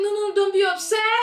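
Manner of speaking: high-pitched imitation of soothing; calm reassurance. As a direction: play the unbothered date, placating lightly. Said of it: "And he was so calm".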